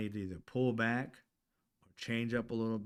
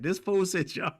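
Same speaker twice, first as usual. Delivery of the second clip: kid mocking; 9 semitones higher, 8 dB louder than usual. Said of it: "I said".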